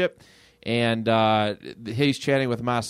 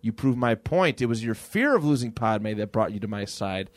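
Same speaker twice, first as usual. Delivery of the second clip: evil Palpatine; 3 semitones lower than usual. Retold or imitated. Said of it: "just being the evil asshole that he is".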